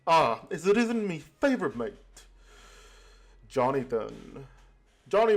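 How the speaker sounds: lightly voiced pirate, mock-friendly; a hint of sly pirate charm; pirate captain greeting. Kenway taunting the rival captain, lightly voiced pirate.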